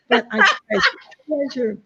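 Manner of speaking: choking up on a heartfelt word; voice breaking. Real, not acted. Friend tearing up telling Carol she treasures her, voice breaking.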